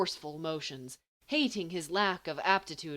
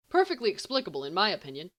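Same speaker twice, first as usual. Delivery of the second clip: knowing; 3 semitones higher, 6 dB louder, much faster than usual. Acted. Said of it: "Sirius says knowledgeably".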